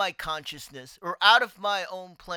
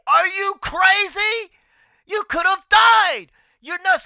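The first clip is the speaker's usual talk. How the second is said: higher, louder, slow alarmed yell at a reckless friend; retold shout; 11 semitones higher, 8 dB louder than usual. Friend pulls him off the ledge, shouting higher and louder. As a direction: bellow it like you just saw him nearly fall. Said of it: "and he shouts at me".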